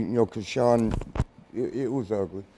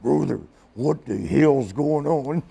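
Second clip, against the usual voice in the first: Randy Savage; slower than usual. Retold or imitated. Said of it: "He goes".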